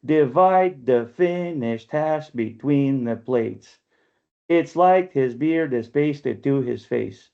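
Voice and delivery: slow, measured iambic recitation; metrical poem reading. Shown as a demonstration. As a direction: read the verse slowly, marking each beat. Reads own iambic found poem.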